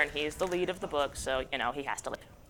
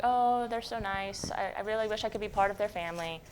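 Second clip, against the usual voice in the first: wistful; 6 dB quieter than usual. Acted. Monster longing to join family.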